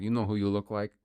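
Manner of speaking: badly faked German accent, sounding Russian; lightly attempted German that slips into Russian. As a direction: try German, land nearer Russian. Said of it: "That's, like, more Russian".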